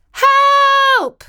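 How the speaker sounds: high, loud cry for help from inside the chimney; calling for help. Acted. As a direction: call out loud and high, stuck and scared. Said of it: "she called out".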